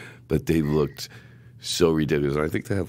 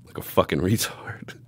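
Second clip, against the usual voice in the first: giggled aside; 3 semitones higher than usual. Real, not acted. Laughing at own mistake.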